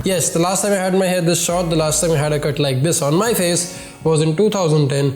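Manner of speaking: stuffy nose from a cold; nasal voice. Real, not acted. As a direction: talk with a blocked nose. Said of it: "Excuse the nasal voice".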